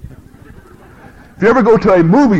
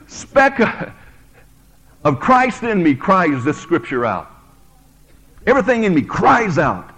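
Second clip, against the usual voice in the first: fervent cry. Acted. Preacher voicing bride's fervent cry.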